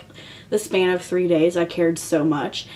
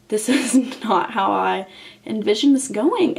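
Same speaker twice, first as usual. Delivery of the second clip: rueful laugh; 3 semitones higher than usual. Retold or imitated. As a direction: laugh at your own misery. Lying in bed, rueful.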